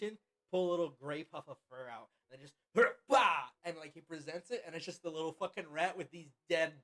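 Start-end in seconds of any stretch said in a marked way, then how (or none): 3.1-3.5 goat bleat. Acted. DM voices the goat.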